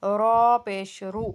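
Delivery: رو said with lips rounded. Shown as a demonstration. Teacher shows students the rounded pish sound. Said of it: "اس کو گول کریں گے".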